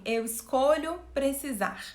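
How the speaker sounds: steady grounded "Eu escolho precisar"; calm, mature choice. Shown as a demonstration. Teacher contrasting the mature posture with the child's, calm and grounded. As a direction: say it as a calm adult decision. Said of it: "duas posturas completamente diferentes".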